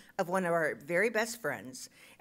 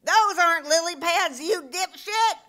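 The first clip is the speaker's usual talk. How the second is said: loud, high mock bellow; hammed-up scream, stretched out at the end; imitated full-lung scream; 8 semitones higher, 9 dB louder, slower than usual. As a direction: yell it like him, exasperated. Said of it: "He screamed at the top of his lungs".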